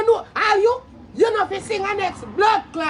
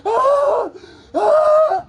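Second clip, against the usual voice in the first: high laughing cry; 9 semitones higher, 6 dB louder than usual. Real, not acted. Laughing reaction.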